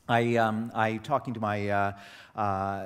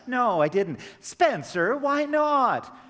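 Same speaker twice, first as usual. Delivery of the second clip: louder, much higher exasperated cry; 12 semitones higher, 7 dB louder, slower than usual. Retold or imitated. A father exasperated that his son said nothing, in a loud high voice. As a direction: throw up your hands in disbelief.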